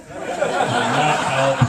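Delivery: laughing. Real, not acted. Laughing repeat of punchline.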